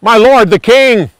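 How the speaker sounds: loud call after the departing king. Acted. David shouts after the king from the cave mouth, loud. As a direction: shout it across to be heard. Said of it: "came out of the cave and yelled".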